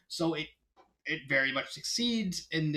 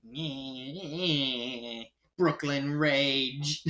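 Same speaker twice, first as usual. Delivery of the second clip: put-on Brooklyn accent; much slower than usual. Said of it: "stronger Brooklyn accent".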